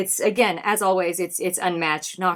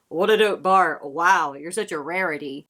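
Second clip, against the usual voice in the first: mock sarcasm; 4 semitones lower than usual. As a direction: imitate a rapper's sarcastic compliment. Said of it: "I love the sarcasm".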